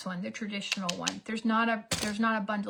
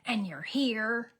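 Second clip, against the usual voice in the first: mock psycho rant; slower than usual. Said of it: "I did turn a little bit into a psycho".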